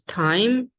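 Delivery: time drawn out with a puff after the t; aspirated T. Shown as a demonstration. Teacher giving first example word, aspirated t in time. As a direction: say time slowly as t-h-ime. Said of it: "this letter as a ta".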